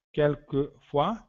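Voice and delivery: "Quelquefois" spelled out slowly as "kel-ke-fwa", rising at the end; slow teacher model of "Quelquefois"; slow model word. Shown as a demonstration. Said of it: "Tomamos cuidado com um falso amigo aí". ("Quelquefois" dito devagar, como modelo)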